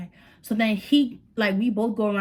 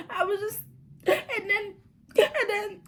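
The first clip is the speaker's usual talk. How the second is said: stuttering; 12 semitones higher than usual. Retold or imitated. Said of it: "I'm over here stuttering".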